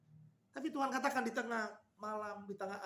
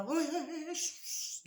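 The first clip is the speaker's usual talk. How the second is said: sudden high call of hey, then breathy shushing; calling out and hushing; 9 semitones higher, slower than usual. Retold or imitated. Jesus calling to frightened disciples, hey then hushing. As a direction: grab their attention, then calm them with shh. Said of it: "istilahnya orang".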